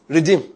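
Redeem said alone as a weighty single word; stressed word redeem. Shown as a demonstration. Preacher stressing Redeem to the congregation. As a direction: land on Redeem deliberately. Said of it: "I'm emphasizing the word redeem".

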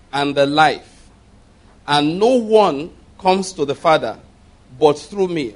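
proclaiming scripture to the congregation; scripture reading. Acted. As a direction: read the verses out with weight. Pastor rereads verse six.

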